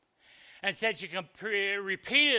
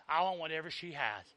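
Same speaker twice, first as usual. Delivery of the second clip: soft echo; 5 semitones lower, 12 dB quieter than usual. Shown as a demonstration. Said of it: "echo of the line before".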